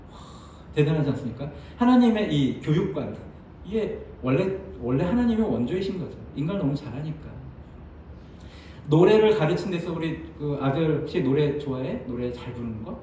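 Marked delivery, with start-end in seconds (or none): none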